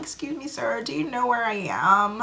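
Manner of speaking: hammed-up helpless stranger asking; dramatic. Asking the truck driver for help, hammed-up helpless and high. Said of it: "being real dramatic".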